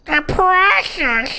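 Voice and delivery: slow hissing goblin voice; drawn-out creepy creature whisper; Gollum voice. Pretend. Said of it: "That's actually spot on".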